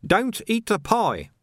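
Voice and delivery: high, drawn-out cry of alarm; shouted warning. A narrator's reading. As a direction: stop them before it's too late. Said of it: "he shouted".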